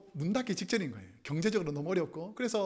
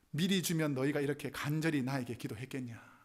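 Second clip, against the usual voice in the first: lightly voiced God, low and measured; 5 semitones lower than usual. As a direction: answer gently as God would, pitch dropped. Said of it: "하나님께서 이렇게 말씀해 주시더라는 거예요". (낮게 타이르는 하나님의 음성)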